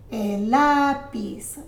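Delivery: slow "lápiz" leaning on the first syllable; "lápiz" drawn out on its accented start; stress on accented syllable. Shown as a demonstration. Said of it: "When you see an accent".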